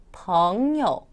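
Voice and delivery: 벙요 with 벙 gliding upward, 요 dropping lightly; second plus neutral tone. Shown as a demonstration. Teacher reviewing tones, 벙요 rising then dropping. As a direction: pull 벙 up, then let 요 fall short. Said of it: "이성 경성이요".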